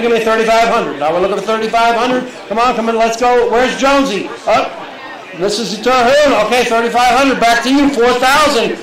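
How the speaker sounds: brisk, rising auction calling; auctioneer calling. Acted. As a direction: keep the bids moving.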